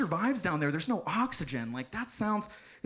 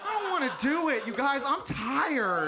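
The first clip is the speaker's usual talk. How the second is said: mock whining; 7 semitones higher than usual. Complains to crowd about extra effort.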